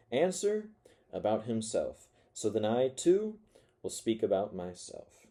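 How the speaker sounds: dramatic reading of a bitter confessional monologue; story narration. A narrator's reading. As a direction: read it as a spiteful, rambling narrator. Reads Dostoevsky monologue aloud.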